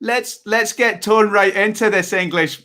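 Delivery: slow, careful attempt at a Scottish accent; an Englishman trying a Scottish accent and missing. Shown as a demonstration. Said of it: "But I sound like the guy off".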